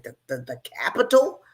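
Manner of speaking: high, loud and laughing; cracking up at her own joke; laughing retold remark. Telling friends about Austin, laughing loud. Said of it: "I said".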